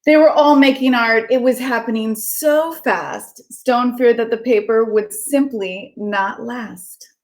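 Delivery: lilting storybook read-aloud; gentle sing-song story narration for kids; reading to children. Acted. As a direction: read it like a bedtime picture book. Reads picture book aloud.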